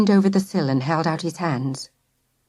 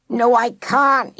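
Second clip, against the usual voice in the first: slow, mild wailing protest; a touch of a frightened wail; lightly wailed; 4 semitones higher, slower than usual. A narrator's reading. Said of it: "he wailed".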